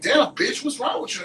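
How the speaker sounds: loud, high call-out to a friend; brash confrontation. Retold or imitated. Ghetto friend confronts her among these people, loud and brash.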